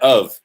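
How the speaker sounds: of hit and held apart; stress on of. Shown as a demonstration. Teaching viewers that "of" is the clue, he stresses it. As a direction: lean hard on "of" as the clue. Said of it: "is your clue".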